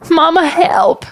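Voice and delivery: high-pitched sputtering plea; sputtered cry for help. Acted. Girl caught by a kraken cries to mama, sputtering. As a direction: call for mama through a mouthful of river. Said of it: "she sputtered".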